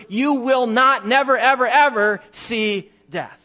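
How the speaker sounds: preacher's building emphasis on "never, ever". Shown as a demonstration. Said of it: "to add a little more emphasis".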